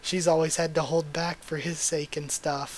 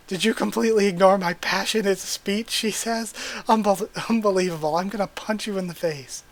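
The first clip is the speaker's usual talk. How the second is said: louder, playfully outraged scolding; mock indignant; 3 semitones higher, 4 dB louder than usual. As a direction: fake fury at being ignored. Haru scolds Legosi.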